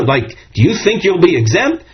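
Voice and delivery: a hint of "you can't be serious"; tone of wonderment. Shown as a demonstration. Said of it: "says with a tone of wonderment".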